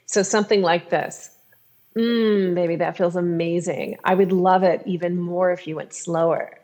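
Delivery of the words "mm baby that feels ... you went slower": appreciative sexy tone. Shown as a demonstration. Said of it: "using the tone of your voice to express your appreciation".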